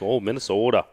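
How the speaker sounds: put-on long-O Minnesota accent in "Minnesota". Teased by Matt for it, Minnesota accent. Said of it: "pull out the Minnesota accent".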